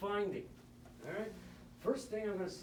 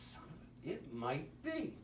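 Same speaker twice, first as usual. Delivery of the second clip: under the breath, voice dropping away to a near whisper; breathed out as the penny drops; muttered realization; 3 semitones lower, 6 dB quieter than usual. Retold or imitated. Anesthesiologist realizing it is malignant hyperthermia, under his breath.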